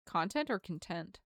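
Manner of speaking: first "content" stressed on the first syllable as the noun, second "content" stressed on the second syllable as the adjective. Acted. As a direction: say "content" both ways, first KON-tent then kon-TENT. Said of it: "I do not fully understand his content".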